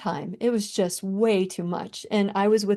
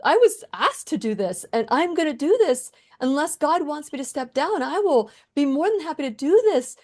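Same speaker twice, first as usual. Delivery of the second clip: rising, determined through tears; higher, earnest vow after crying; retold tearful resolve; 5 semitones higher than usual. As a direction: push the voice up with resolve. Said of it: "as I'm wiping my tears going".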